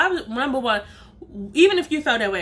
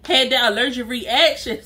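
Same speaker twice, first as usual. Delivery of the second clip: laughing quote. Retold or imitated.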